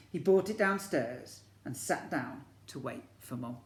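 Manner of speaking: lively picture-book storytelling; story narration. A narrator's reading. Teacher reads to year one in storybook narration. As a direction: read it to the class like a storybook.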